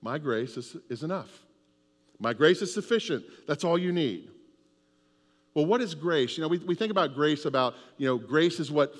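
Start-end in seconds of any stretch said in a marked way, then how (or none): 0.0-4.3 gentle voice of God. Acted. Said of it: "And God says".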